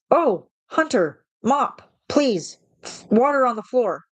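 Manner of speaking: high, slow, sing-song mock of a bossy coworker; imitating a coworker ordering her around, high, slow sing-song. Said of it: "And then I get told".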